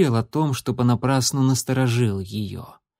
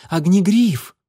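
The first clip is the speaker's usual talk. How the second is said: higher, louder glad cry; joyful exclamation; 6 semitones higher, 5 dB louder, slower than usual. A narrator's reading. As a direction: cry his name in delight. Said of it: "она радостно воскликнула".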